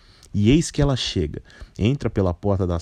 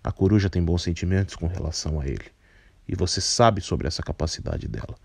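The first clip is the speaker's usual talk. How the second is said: put-on a lightly lowered, composed older man; low, measured voice; 3 semitones lower than usual. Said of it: "retrucou o velho carpinteiro".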